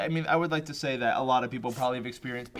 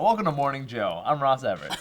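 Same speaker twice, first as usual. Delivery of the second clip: morning show host. Pretend. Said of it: "I felt like I was on, like, a morning show".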